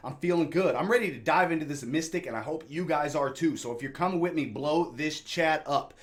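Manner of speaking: loud pumped-up hype; wired, shouting them into it; jittery. Real, not acted. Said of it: "look, I'm jittery".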